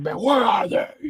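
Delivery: shrieking, full-throated screaming yell. Acting out the character questioning a tied-up man: acted screaming. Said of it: "screaming like".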